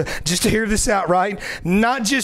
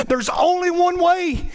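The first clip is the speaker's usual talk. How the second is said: earnest plea; 7 semitones higher than usual. Retold or imitated. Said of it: "And I said".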